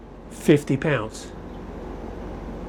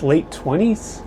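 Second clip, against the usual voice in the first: unsure guess; slower than usual. Real, not acted. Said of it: "I guess".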